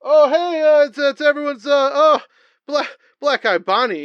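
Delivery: high, loud, stammering host patter; comedy talk-show wrestler. Acted. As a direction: greet the guest big, with plenty of hesitations. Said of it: "He goes".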